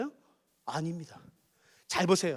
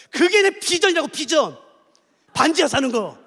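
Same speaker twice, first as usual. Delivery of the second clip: defiant cheerful answer. Shown as a demonstration. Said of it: "그다음 이렇게 대답하세요".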